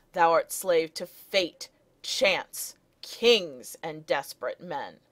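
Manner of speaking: "fate, chance, kings" each stressed separately; stresses in a row. Shown as a demonstration. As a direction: weigh "fate", "chance" and "kings" equally, with small breaks. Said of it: "several stresses in a row there".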